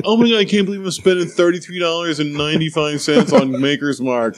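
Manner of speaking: retold petulant disbelief; bitchy complaining. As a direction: gripe theatrically about being made to pay. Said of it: "I was being such a bitch about it".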